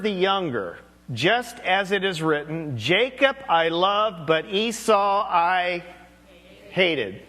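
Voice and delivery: slow, measured Bible reading; scripture reading. Acted. Preacher reading Romans to the congregation, slow and solemn. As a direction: lay each phrase down slowly and solemnly.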